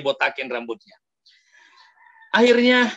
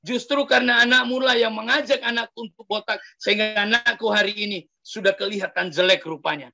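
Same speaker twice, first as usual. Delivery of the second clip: a high, raised, accusing voice; angry shout; 6 semitones higher than usual. Acted. Father yelling at the neighbour's parents outside, raised angry voice. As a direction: scold the neighbours from outside their house. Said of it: "Dan dia teriak dari luar".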